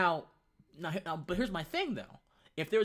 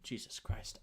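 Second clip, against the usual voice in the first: whispered exasperation; 7 dB quieter than usual. Real, not acted. Exasperated aside after retold insult.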